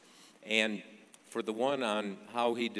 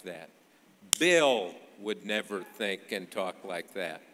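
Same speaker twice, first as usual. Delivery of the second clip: emphatic retold insistence, hitting each name; Clinton, intense. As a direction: hammer the names as if pounding a fist. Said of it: "intense, kind of lamp throwing intense".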